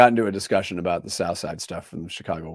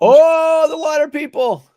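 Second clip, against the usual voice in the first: surprised recognition; 13 dB louder, slower than usual. Real, not acted. Recognizes Culligan, reacts.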